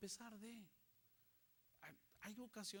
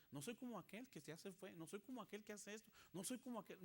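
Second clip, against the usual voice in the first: self-justifying; 4 semitones higher, faster than usual. Acted. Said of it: "comienzas a ver".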